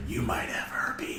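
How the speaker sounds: slow, breath-only whisper; teasing stage whisper; whisper in the ear. Acted. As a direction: whisper it slowly, like a secret threat. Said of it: "just whisper in the ear".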